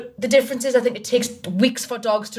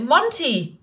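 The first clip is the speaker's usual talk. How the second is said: calling the cat's name; 4 semitones higher than usual. Retold or imitated. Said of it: "I was like".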